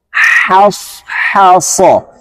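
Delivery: "haso" with light thin h, the right way. Shown as a demonstration. Teacher models the correct thin reading. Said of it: "Harus jelas".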